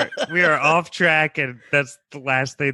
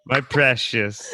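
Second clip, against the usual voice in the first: deep weird voice. Acted. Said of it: "Why does your voice sound like that?".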